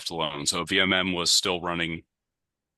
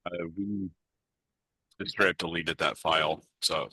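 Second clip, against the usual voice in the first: tinny mechanical audio. Real, not acted. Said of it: "your audio is very tinny and mechanical".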